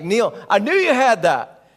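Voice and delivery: loud, high call of praise; pumped teammate. Retold or imitated. Teammate praising Neil's shot, loud and pumped. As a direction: shout it across the court. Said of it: "And he's like".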